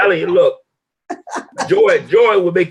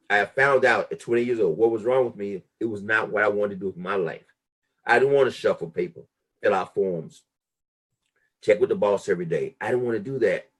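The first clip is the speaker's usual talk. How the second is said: much softer, low and reflective; quiet; 5 semitones lower, 7 dB quieter than usual. Retold or imitated. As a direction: drop it low, almost confiding. Quiet realization after outburst.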